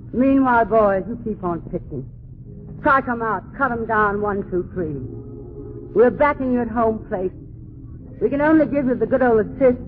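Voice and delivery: put-on rally the boys overseas; rousing patriotic speech. Patriotic address to the troops.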